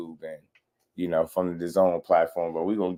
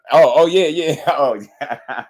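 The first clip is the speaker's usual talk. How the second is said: mock surprise; 6 semitones higher, 8 dB louder than usual. Mock realization of fight week.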